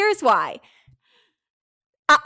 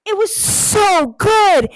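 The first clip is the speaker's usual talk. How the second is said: excited gush; 8 semitones higher, 7 dB louder, slower than usual. Real, not acted. Gushing about race.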